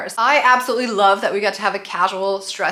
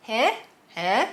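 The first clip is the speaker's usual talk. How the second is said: rude huh; slower than usual. Shown as a demonstration. Vlogger showing the rude German way to say what. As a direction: toss it back rudely. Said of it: "in a really rude way".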